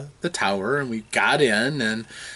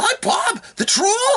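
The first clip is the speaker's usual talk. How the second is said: put-on character voice, pitched way up. Speaker retells Stefan in character introducing himself: Bob the Troll's high-pitched voice. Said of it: "got into character with his high pitched voice".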